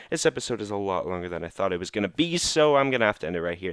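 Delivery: breathless, winded outro; out of breath. Real, not acted. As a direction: talk while short of breath. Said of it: "I'm almost out of breath".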